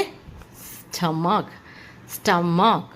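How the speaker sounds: स्टमक broken up, "s-tum-mak". Shown as a demonstration. Teacher giving students another example, "stum-mak" with k. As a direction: end स्टमक on a clear k. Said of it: "क की तरह निकलती है".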